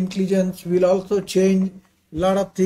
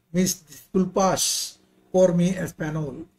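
accented Spanish. Real, not acted. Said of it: "Apologies for my Spanish pronunciation".

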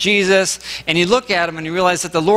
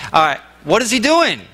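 baffled outburst; 6 semitones higher than usual. Retold or imitated. Baffled reader of Ezekiel.

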